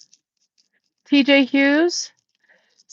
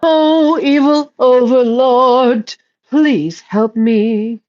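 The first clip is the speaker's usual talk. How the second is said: mock prayer; slower than usual. Mock prayer to evil overlord.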